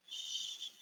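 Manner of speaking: soft unvoiced shh; shushing. Shown as a demonstration. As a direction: hush the room. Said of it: "here's how the song goes".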